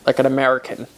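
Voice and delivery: "American" with a strong American R; American accent. Shown as a demonstration. Showing partner her American accent with a hard R. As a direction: stress the R in "American" the American way. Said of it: "put the emphasis on the R".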